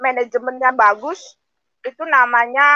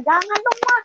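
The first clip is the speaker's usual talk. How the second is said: hoped-for plea; 11 semitones higher than usual. Retold or imitated. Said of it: "Saya berharap anak saya melarang".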